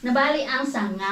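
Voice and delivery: words still breaking with laughter; laughing through words. Real, not acted. Mom singing the nursery line while still laughing. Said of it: "Lakas mo tumili".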